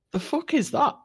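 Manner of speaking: high, startled outburst; scared by sudden music, a startled swear. Retold or imitated. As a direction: blurt it out in fright. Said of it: "sorry for the language".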